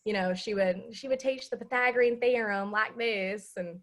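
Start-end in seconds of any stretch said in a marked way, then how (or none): 0.9-3.5 put-on Southern accent. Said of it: "I will use the Southern accent for emphasis".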